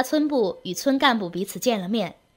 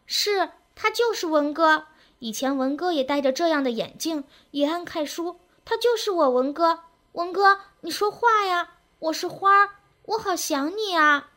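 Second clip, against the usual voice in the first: put-on high, pleading girl's voice; girl crying out; 6 semitones higher than usual. A narrator's reading. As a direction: insist and plead high-pitched, longing to be recognised. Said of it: "花儿叫道".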